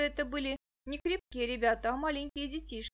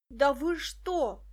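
shout; 2 semitones higher, 5 dB louder, much slower than usual. A narrator's reading. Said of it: "закричал Петька".

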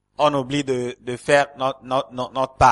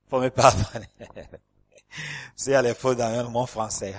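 laughing apology. Real, not acted.

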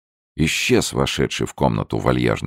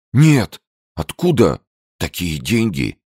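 greedy protest; 7 semitones higher, 4 dB louder than usual. A narrator's reading.

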